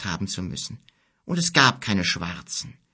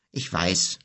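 sighing; 5 semitones lower than usual. A narrator's reading. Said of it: "seufzte Kim".

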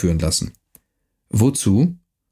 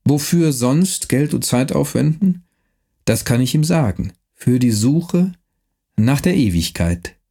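thin voice; 2 semitones higher than usual. Acted. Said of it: "Mit wieder dünner Stimme".

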